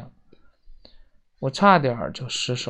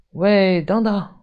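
higher, raised call to someone running away; loud call; 4 semitones higher, 4 dB louder, slower than usual. A narrator's reading. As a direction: call out to stop them. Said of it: "我大声喊道". (大声喊住对方)

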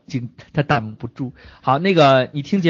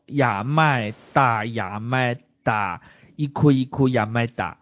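mock Japanese; 4 semitones lower, 4 dB quieter, slower than usual. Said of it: "芙蓉富贵说".

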